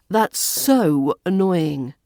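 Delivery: so dragged out slowly and stressed. Shown as a demonstration. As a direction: stretch so out for drama. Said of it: "we often stress so and such to exaggerate".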